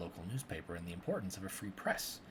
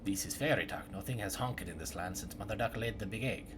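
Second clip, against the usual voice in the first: archaic woodcutter drama; 2 semitones lower than usual. Acted. Woodcutter interrogating suspects about the murder, hushed and theatrical. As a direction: play a solemn woodcutter grilling suspects in a murder. Voices woodcutter and tree dialogue.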